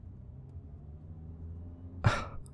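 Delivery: soft, breathy scoffing laugh; dismissive laugh. Acted. Shifter guard scoffs at the human's claim, soft dismissive laugh. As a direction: laugh it off quietly.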